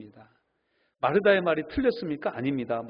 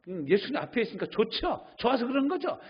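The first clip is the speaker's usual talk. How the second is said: gentle teasing; 7 semitones higher than usual. Retold or imitated. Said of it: "이렇게도 얘기할 수 있었을 거예요".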